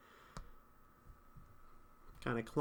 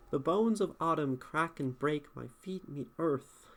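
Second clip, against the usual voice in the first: poetry reading. Real, not acted. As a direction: read the line aloud in meter. Reads student's poem aloud.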